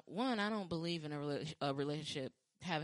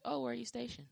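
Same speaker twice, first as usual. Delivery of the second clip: higher, mock-innocent probing; skeptical question; 8 semitones higher than usual. Quizzing men who claim military service, mock innocent. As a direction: ask sweetly but suspiciously. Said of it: "I always ask".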